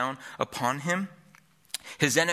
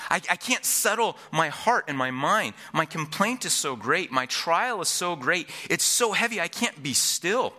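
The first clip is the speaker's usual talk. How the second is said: acted desperation, pitch raised and building; David; 4 semitones higher than usual. David lamenting his great trial, desperate cry. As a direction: plead as if weighed down, stretching the heavy words. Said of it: "desperation in David here in this opening cry".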